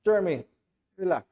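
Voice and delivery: calm. Acted. Ray calming the frightened Jeremy, soft and calm. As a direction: settle him down gently. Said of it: "And I calmly said to him".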